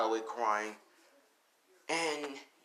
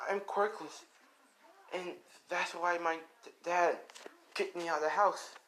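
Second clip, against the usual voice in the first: put-on higher-pitched child voice, halting delivery; hesitant young boy; 5 semitones higher than usual. Boy telling elders why he was thrown out, hesitant. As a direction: confess it haltingly as a small boy.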